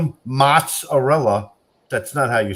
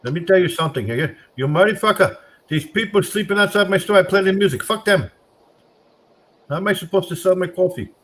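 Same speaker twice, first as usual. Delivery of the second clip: put-on Indian accent; 5 semitones higher than usual. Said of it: "my Indian impersonation".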